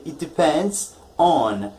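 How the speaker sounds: slow "It depends on," with stress on "on"; correct form. Shown as a demonstration. Teacher giving the right version, slow stress on on. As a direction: land firmly on "on". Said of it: "you say".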